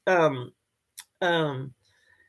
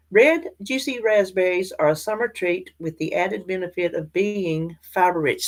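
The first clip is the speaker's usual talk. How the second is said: reading aloud. Shown as a demonstration. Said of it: "that's how I would read to you".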